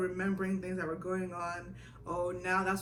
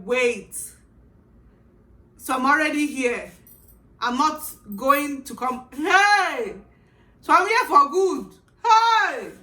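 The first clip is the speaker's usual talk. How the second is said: much higher, shouting in alarm; panicked outburst; 7 semitones higher, 15 dB louder, slower than usual. Retold or imitated. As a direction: scream it as the truth hits. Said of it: "I was like".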